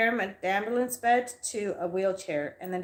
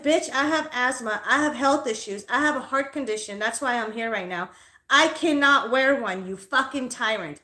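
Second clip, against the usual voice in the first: raised, emphatic listing of grievances; retold indignant protest; 2 semitones higher than usual. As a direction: replay the angry refusal, leaning on each point. Acted quarrel over wearing a mask.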